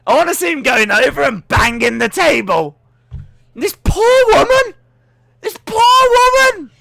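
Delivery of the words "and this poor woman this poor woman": laughing pity. Real, not acted.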